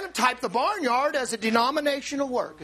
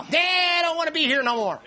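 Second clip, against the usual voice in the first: mock quitter; 4 semitones higher, 4 dB louder than usual. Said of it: "people go".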